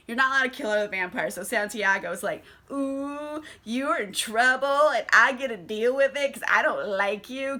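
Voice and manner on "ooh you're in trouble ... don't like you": gloating taunt. Retold or imitated. Santiago gloating over a rule-breaker, mock taunt. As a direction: tease like a gleeful tattletale. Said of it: "'cause he's being an asshole".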